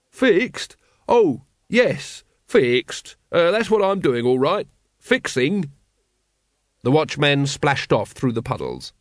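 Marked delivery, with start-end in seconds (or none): 0.1-0.8 high startled squeak of a question; startled echo. Acted. Sign fixer caught out by the watchman, startled. 1.1-5.7 high, flustered bluffing voice; nervous bluffing. Acted. Sign fixer bluffs to the watchman, high and flustered.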